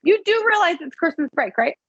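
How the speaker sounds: mocking the plan during Christmas break; mocking laugh. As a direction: scoff at the idea of ten scheduled calls. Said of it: "I laughed at him and I said".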